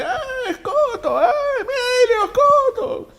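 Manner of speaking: very high, slow, loud cheering with a laugh; imitating an excited crowd. People in Madrid recognizing the traveller, high slow excited cheer. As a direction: cheer his name like thrilled fans spotting a star.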